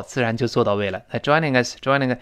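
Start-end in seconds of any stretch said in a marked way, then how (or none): 1.2-2.2 quick linked reading. Shown as a demonstration. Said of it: "做快了之后，自然就做到位了".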